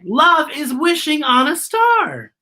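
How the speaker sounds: put-on high, slow little child voice; a dreamy small child, wishing; child's voice. A narrator's reading. Teacher reading to class, voicing a child. Child's line in read-aloud.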